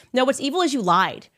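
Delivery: normal talking voice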